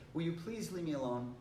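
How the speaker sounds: polite, easy asking; be nice as you ask; nice request. Shown as a demonstration. Teacher leads class in a first request, nicely. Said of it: "We wanna be nice to them".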